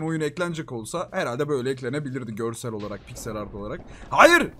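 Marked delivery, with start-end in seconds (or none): 4.1-4.5 sharp no. Real, not acted. Stops rival's sabotage.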